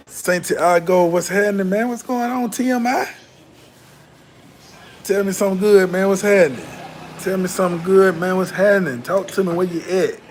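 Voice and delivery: hyped greetings. Real, not acted. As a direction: pump up each viewer as they join. Hyping viewers joining the stream.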